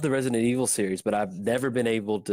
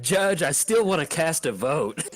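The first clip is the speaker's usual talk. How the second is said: lightly hammed-up plea, slower and higher; mock courtroom plea; 5 semitones higher, 3 dB louder than usual. Player jokingly begging the judge for a vote, mock courtroom plea. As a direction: plead your case with mock gravity.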